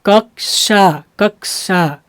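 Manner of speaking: कक्षा split into कक् and a hissed षा; teacher drilling कक्षा with a clear sh; careful pronunciation demo. Shown as a demonstration. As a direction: say कक्षा slowly, syllable by syllable. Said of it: "जैसे".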